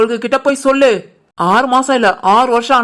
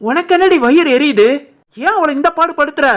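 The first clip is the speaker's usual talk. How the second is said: higher, sharp rebuke; angry scolding; 4 semitones higher than usual. Acted. Mother scolding her daughter for tormenting the bride, angry. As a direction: tear into her.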